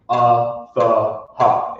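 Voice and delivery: "a th ha" broken into separate pieces; wrong split syllables. Shown as a demonstration. Teacher showing the wrong way. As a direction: pause between "a th" and "ha". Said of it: "You don't wanna say".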